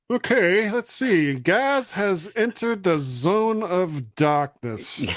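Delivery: lightly put-on portentous announcement, slowing down; mock dramatic announcer. Teasing co-host about the dark room, mock dramatic announcer. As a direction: announce it with mock gravity, drawing out the end.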